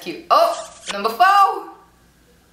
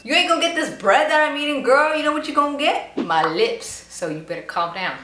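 punchier, faster mock sass; sassier retake, a bit higher and faster; 4 semitones higher than usual. Voicing Lisa teasing her bandmate, now faster and sassier. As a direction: replay it with more attitude. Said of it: "she's like".

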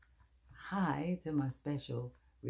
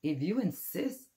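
sweetly; 4 semitones higher than usual. Acted. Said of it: "answered the friendly ladybug sweetly".

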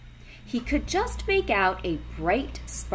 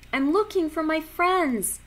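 Stanley voice; 9 semitones higher, 5 dB louder than usual. A narrator's reading. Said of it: "said Stanley".

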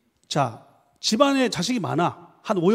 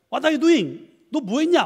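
high-pitched mock questioning; retold incredulous question; 7 semitones higher, 3 dB louder, much slower than usual. Host questioning late professor at door, mock incredulous. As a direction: demand an explanation, lightly acted.

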